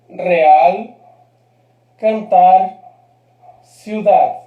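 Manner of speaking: "Real, cantar, ciudad" each strong on the final syllable; last-syllable stress. Shown as a demonstration. Teacher showing unaccented agudas, final stress on "Real, cantar, ciudad". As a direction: punch "-al", "-tar", "-dad" in "Real, cantar, ciudad". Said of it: "Última sílaba fuerte".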